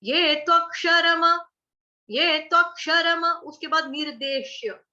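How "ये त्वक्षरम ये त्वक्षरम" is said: त्वक्षरम with a full final म; careful recitation of त्वक्षरम. Shown as a demonstration. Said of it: "म हमने पूरा बोलना है".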